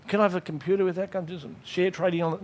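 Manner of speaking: cheeky request. Acted. Prisoner making cheeky requests.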